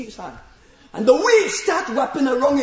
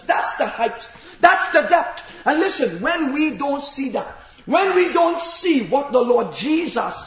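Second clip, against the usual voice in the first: preaching at full force. Acted. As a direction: drive the crucifixion home like a pulpit sermon.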